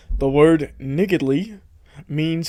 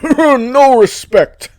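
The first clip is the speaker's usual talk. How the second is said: high, slow, strangled no-respect whine; slow squeezed complaint, hammed up; Rodney Dangerfield impression; 9 semitones higher, 6 dB louder, much slower than usual. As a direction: wail it like the put-upon comic. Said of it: "so he had to do Rodney".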